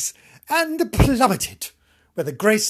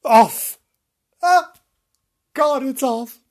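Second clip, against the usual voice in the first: loud theatrical lament; dramatic wail; 4 semitones higher, 8 dB louder than usual. Acted. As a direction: wail it like a tragedy. Hammed-up lament.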